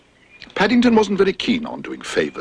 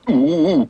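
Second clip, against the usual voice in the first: cried; 5 semitones higher, 4 dB louder than usual. Acted. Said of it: "cried Mister Leach".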